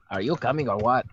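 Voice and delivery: put-on young boy voice, playful; childish voice. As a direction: ask it like a little kid. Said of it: "he inquired childishly".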